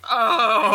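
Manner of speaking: long horrified "oh"; horrified groan. Retold or imitated. Watching the fingers go into the eye sockets, horrified groan. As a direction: groan at a gruesome sight. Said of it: "I was just like".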